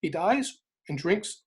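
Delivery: weighing it out slowly; slow, weighing each word. Shown as a demonstration. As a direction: spell out the two options slowly. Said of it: "Your choice".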